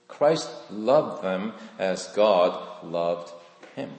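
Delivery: Christ loved them as God loved him, drawn out slow and soft. Shown as a demonstration. Preacher repeating the key line slowly and softly to the congregation. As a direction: let it sink in, very slow. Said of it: "So this is what I've discovered".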